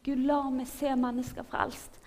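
restrained re-enactment of desperate prayer; retold cry to God. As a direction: plead as if calling out to God. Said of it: "Og jeg ropte til Gud".

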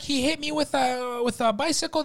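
high-pitched wailing complaint; mock hysterical customer. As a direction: imitate an upset woman's high whine. Imitating the screaming injured customer.

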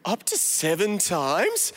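slow, smug stretched question; self-righteous tone. Acted. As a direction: drag it out, pleased with himself. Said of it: "I love his, like, self-righteous tone in there".

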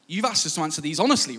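hurried, affronted self-defence; indignant. Retold or imitated. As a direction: act out a teenager taking offence. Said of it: "Red flag to a bull".

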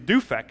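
Dufek said as "DOO-fek"; correct surname pronunciation. Shown as a demonstration. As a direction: say Dufek with a long oo. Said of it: "that's a harder one to pronounce".

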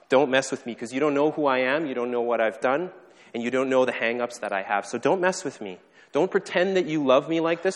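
heated, hurt pushing away; defensive protest. Acted. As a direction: plead angrily to be left alone. Voicing hurt people pushing God away.

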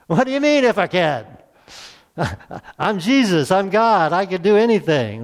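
a mock-offended Jesus brushing off the doubt; voicing Jesus. Preacher voicing Jesus answering the doubting father, incredulous. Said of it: "If you were Jesus, you would probably respond this way too".

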